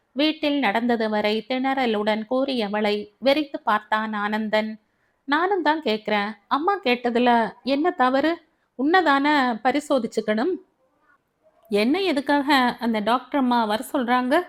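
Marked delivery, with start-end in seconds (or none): 5.2-14.4 irritated, higher questioning; a touch of anger, pushing back; slightly annoyed. Acted. Husband questions his wife, mildly annoyed. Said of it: "சிறிது சினத்துடன் கேட்டான்".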